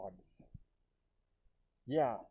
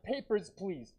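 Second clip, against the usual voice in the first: mock guard asking for papers; stern checkpoint demand; 4 semitones higher, slower than usual. Shown as a demonstration. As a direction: bark it like a border guard. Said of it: "just like that".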